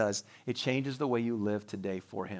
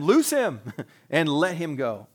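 laughing while reading; 2 semitones higher, 5 dB louder, slower than usual. A narrator's reading. Reading Jesus' command.

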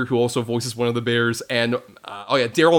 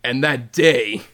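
menacing villain. Retold or imitated. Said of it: "the bit where he's just like".

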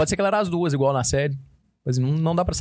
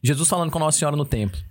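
usual speaking voice

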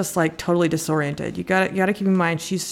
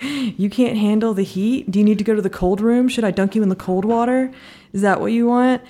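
mock taunting; 3 semitones higher than usual. Acting out his taunts at her.

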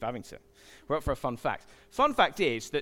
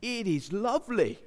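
wondering wow; 4 semitones higher than usual. Retold or imitated. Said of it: "I went".

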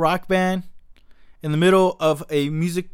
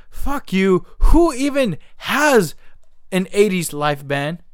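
silent fury; 3 semitones higher, slower than usual. Retold or imitated. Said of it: "it just hit something in me".

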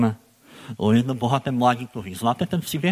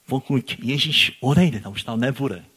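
ordinary delivery

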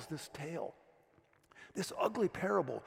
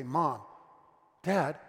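urgent call; 6 dB louder than usual. Retold or imitated. Child calling parents urgently.

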